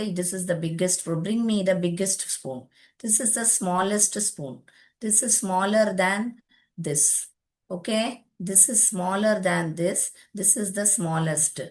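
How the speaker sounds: very slow, word-by-word English; slow model sentences. Shown as a demonstration. Teacher modelling comparison sentences for students, very slowly. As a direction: spell each word out slowly for the class.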